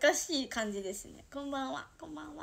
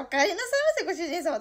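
sugary maid cafe greeting; 3 semitones higher, 6 dB louder, faster than usual. Shown as a demonstration. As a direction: greet your master like a maid. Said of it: "とかそういう系なんだけど".

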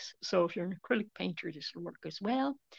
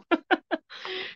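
breathy laugh; 10 semitones higher, 5 dB louder than usual. Real, not acted. Lid finally opens.

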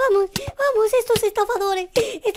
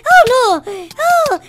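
laughing yell; 6 semitones higher, 8 dB louder, much slower than usual. Real, not acted. Laughing yell mid fight.

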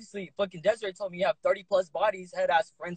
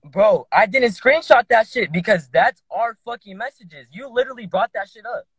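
angry; 6 dB louder than usual. Real, not acted. Heated argument on a live stream.

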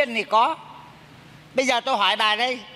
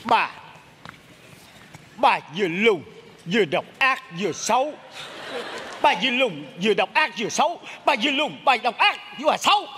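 giả giọng hồn chồng; 3 semitones lower than usual. Acted. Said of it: "sao giống chồng tôi vậy".

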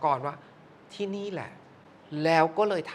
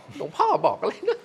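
much higher, slow, half-laughing question; laughing disbelief; 9 semitones higher than usual. Retold or imitated. Host retelling her nervous laughing question to the producer. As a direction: laugh it off in a high voice. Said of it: "ดิฉันก็บอก".

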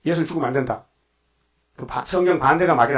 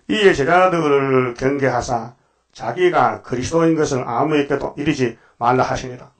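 slow, solemn Bible reading; scripture reading. Acted. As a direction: read the verse out with weight. Reads scripture slowly. (성경 봉독하듯 천천히)

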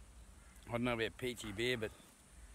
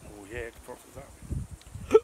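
drawn-out delight; 9 dB louder, much slower than usual. Real, not acted. Pouring beer, delighted.

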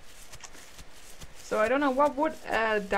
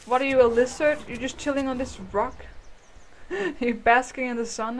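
higher, louder playful teasing; 4 semitones higher, 5 dB louder than usual. Real, not acted. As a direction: coo at the animal mockingly. Teasing a lizard-like dino.

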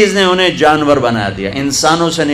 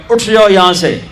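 quick, raised-pitch imitation of scolding; insulting rebuke; 3 semitones higher, faster than usual. Pious women humiliating a girl who sat beside them, insulting rebuke. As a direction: shoo someone away with contempt, retold at speed. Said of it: "انہوں نے اس کو وہ بے عزت کیا".

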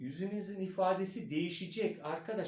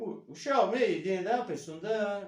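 Black Sea accent; 3 semitones higher, 5 dB louder than usual. Shown as a demonstration. Coach showing a switch into Black Sea accent. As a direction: put on a punchy Karadeniz accent. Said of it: "Mesela ben Karadenizli'ye geçeceğim".

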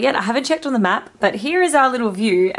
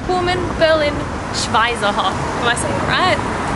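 losing her voice; slightly hoarse, tired voice; 3 semitones higher than usual. Real, not acted. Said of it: "I like losing my voice".

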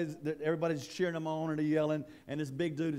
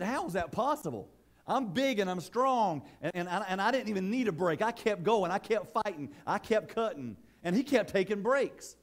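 indignant protest; 5 semitones higher, 3 dB louder than usual. Acted. Big lumberjack protests losing.

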